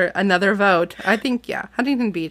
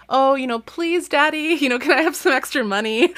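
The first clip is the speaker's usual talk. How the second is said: much higher, sing-song begging voice; wheedling daughter; 6 semitones higher than usual. Retold or imitated. A mock twin begging her dad for money, high and wheedling. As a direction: whine sweetly for pocket money. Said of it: "it's always in context of".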